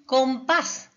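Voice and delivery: Compás with a loud, firm PÁS; stress on last syllable. Shown as a demonstration. Teacher showing students an aguda word, Compás stressed on PÁS. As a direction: land hard on PÁS in Compás. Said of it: "última sílaba".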